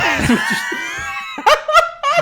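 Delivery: real burst of shrieking laughter; squealing cackle; high shrieking laugh. Real, not acted. Laughing at own story.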